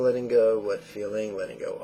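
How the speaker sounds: the noting cues rattled off in a fast demo; quick run-through. Shown as a demonstration. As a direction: rush the cues as a quick sample. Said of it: "Obviously, you don't go that fast".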